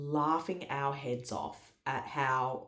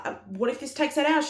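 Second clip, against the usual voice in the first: higher, louder worried plea; mock anxious whine; 12 semitones higher, 7 dB louder than usual. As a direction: whine it out like a tired mother in labour. Her panicked reply in labour.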